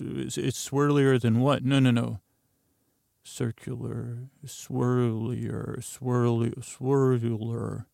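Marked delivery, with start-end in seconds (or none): 3.2-7.9 slow, careful try at "swirlular"; drawn-out practice of tongue-twisting words; trying out pronunciations. Shown as a demonstration. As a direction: sound out each variant slowly, feeling for "swirlular". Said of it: "Yeah, that one. I got it there".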